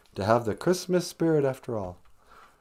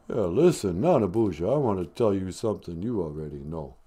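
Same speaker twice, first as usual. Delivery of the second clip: Stallone voice; 3 semitones lower, 3 dB louder than usual. Acted. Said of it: "Stallone caller speech".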